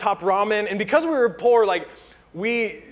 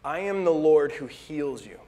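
voice of God; 5 semitones lower, 5 dB quieter than usual. Acted. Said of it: "He said".

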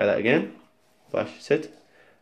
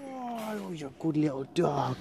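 squeaky praising a dog; 4 semitones higher, 10 dB quieter than usual. Real, not acted.

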